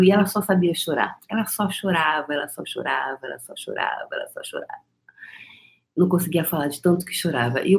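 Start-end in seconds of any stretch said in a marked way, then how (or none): 1.3-4.8 each repeat softer until whispered; fading to whisper. Acted. Telling viewers the girl only cried, fading to a whisper. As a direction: let it die away to a whisper.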